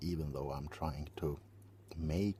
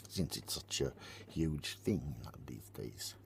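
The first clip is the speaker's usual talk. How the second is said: slight lisp on the s sounds; 3 semitones lower, 4 dB quieter than usual. Real, not acted. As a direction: speak with a lisp. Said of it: "These days I'm lisping".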